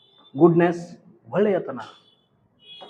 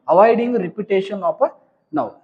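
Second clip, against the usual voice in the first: slow dictation; 4 semitones higher, much slower than usual. Shown as a demonstration. Reading out function for class.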